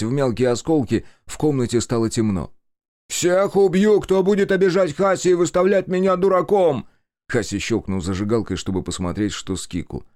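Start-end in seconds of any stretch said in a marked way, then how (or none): 3.1-6.9 high, loud furious scream; raging threat. A narrator's reading. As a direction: threaten everyone in blind fury. Tatsuo raging after shooting.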